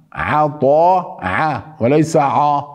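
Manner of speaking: عطاء with a thin ع, not a heavy one; عين مرققة في عطاء; light ain. Shown as a demonstration.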